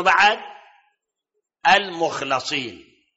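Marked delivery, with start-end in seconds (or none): 1.7-3.0 "المخلصين" slow, lam open: mukh-la-SEEN; mukhlasin with fatha. Shown as a demonstration. Sheikh teaching the audience, "المخلصين" slow with fatha. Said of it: "بفتح اللام".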